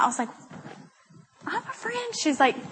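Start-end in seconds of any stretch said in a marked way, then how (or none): 1.5-2.1 high-pitched, softer mock protest; indignant protest. Defensive retort to friend's scolding.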